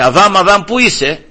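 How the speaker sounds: retold calling out. God calling Adam in the garden, calling out. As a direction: call out as if searching for someone. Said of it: "τους φώναξε".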